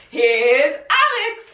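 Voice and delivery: slow, laughing horror-film line; Here's Johnny parody. Pretend. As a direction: drawl it like the Shining. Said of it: "have a massive urge to be like".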